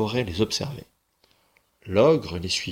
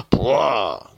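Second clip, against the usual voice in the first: spitting disgust; 2 semitones higher, 4 dB louder than usual. Acted. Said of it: "cracha-t-il".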